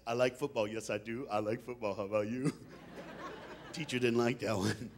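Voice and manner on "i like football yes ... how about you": low, sing-song football rhyme; childish poem recital. Retold or imitated. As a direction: recite a silly schoolboy poem. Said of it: "was like this".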